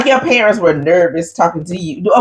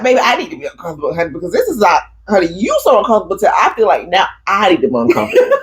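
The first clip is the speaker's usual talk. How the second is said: rapid mock pleading; faster than usual. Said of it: "So I was like".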